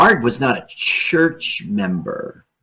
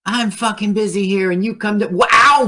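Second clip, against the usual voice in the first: annoyed character voice; 7 semitones higher than usual. Acted.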